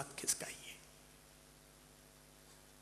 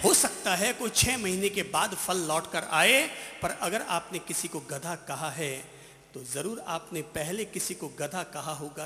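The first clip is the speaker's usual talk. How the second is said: usual speaking voice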